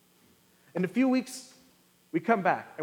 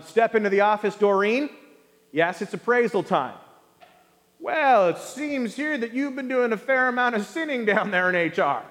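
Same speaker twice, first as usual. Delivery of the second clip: mock boss.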